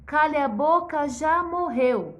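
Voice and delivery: put-on loud, firm little girl answer; girl talking back to the king; defiant girl. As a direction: stand up for yourself, clearly. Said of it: "a menininha falou".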